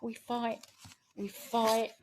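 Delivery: measured, rhythmic spoken-word delivery; poem recital. Acted. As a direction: recite it like a rallying poem to the room. Reciting her own poem.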